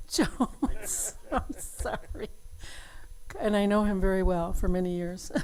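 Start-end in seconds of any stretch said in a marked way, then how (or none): 0.1-2.3 laughing. Real, not acted. Laughs at own slip.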